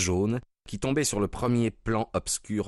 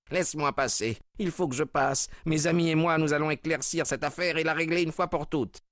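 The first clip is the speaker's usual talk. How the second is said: firm demand; 9 semitones higher than usual. A narrator's reading. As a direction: push past her, determined. Husband forces his way in. (mari résolu, voix forte et haute)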